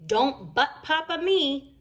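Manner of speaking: slow, firm put-down; stern cutoff. A narrator's reading. Papa Bear silencing his cub, stern. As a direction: shut the cub down slowly.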